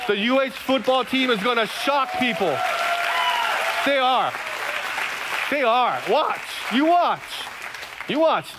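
hammed-up prophet's confident pronouncement; mock prophesying. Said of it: "I am prophesying".

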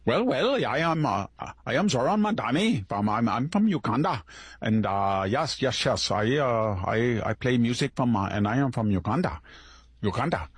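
sarcastic imitation of a Ugandan accent; mock Mamdani accent. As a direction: ham up a fake Ugandan accent. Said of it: "that accent they had".

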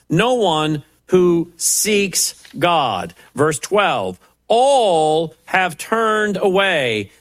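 preacher declaiming scripture; emphatic scripture reading. Real, not acted. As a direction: read the verses out as a pressing indictment. Reads scripture aloud to listeners.

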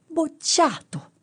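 high, drawn-out cry of failure; shouted verdict. A narrator's reading. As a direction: shout it high, stretching the word out. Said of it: "e gli gridò".

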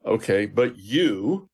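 slow lead-in landing firmly on YOU; pointed, drawn-out stress on "you"; emphatic YOU. Retold or imitated. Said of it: "very emphatic in the original language".

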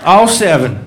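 loud, high and boastful yokel; proud hick collector. Retold or imitated. Redneck collector bragging to a visitor, loud and high. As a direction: show off the buckets like a treasure.

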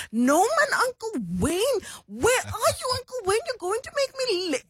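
high, hammed-up Cape colored accent. Daughter as Auntie Dawn calling Uncle Wayne, colored accent. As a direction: play the bossy little girl in a colored accent. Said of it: "speak in this colored accent".

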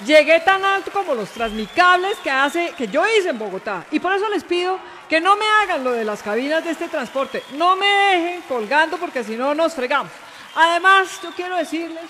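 mock-solemn campaign oratory; deliberate pauses between rallying phrases; stump speech. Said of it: "la invito a dar discurso aquí a nuestra audiencia".

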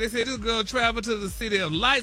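chatty celebrity news read peppered with honey and y'all; sassy gossip news read. Acted. Radio host reading celebrity news to co-hosts, sassy gossip read.

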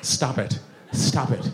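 lightly voiced, weary scolding; half-hearted parental telling-off; ineffectual modern parent. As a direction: repeat it limply, like a powerless parent. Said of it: "they sit there".

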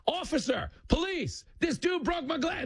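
high-pitched hammed-up cry for police; mock yelling. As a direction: call out as a fake victim, way up high. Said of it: "the guy just starts yelling".

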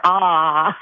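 long dentist's-chair "ah"; open-mouth ah. Shown as a demonstration. Patient obliging the fake dental receptionist, open-mouth ah. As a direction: open wide and hold an "ah". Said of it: "when you opened your mouth and said".

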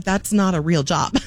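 said through a laugh; amused dismissal with a laugh. Retold or imitated. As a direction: laugh it off as you say it. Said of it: "I laughed and said".

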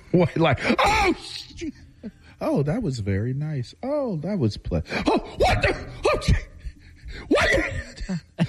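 high squeaky pretend tortoise. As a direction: play a startled little tortoise. Imagining life as a tortoise.

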